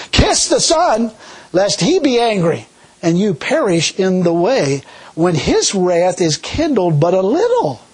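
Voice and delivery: slow, solemn scripture read, words drawn out. Acted. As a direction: proclaim the psalm slowly with weight. Reads scripture.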